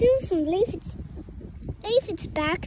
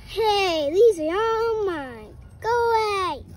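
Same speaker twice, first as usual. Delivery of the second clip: grouchy; 4 dB louder than usual. Acted. Grouchy ladybug claims the leaf.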